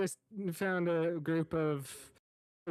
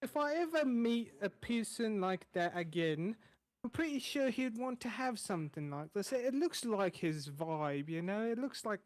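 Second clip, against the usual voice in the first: friendly rambling cook voice, a little higher; chatty chef; 3 semitones higher than usual. Acted. GM as chef reassuring the newcomer, friendly and rambling. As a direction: play the easygoing tavern cook. Chef explains finding the symbol.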